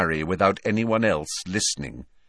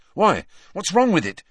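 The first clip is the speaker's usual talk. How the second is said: higher, startled question; puzzled; 9 semitones higher, 4 dB louder than usual. A narrator's reading. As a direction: ask in sudden worry. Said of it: "said Harry".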